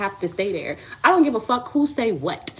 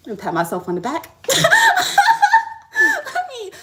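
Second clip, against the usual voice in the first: laughing; 6 dB louder than usual. Real, not acted. Laughing at herself.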